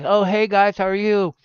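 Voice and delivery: a hint of a doting grandpa; sweet grandpa. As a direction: greet the grandkids kindly. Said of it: "instead of being like".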